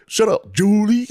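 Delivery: high, slow, loud mock yell; laughing yell. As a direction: stretch it out, cracking up. Repeated retort, laughing harder.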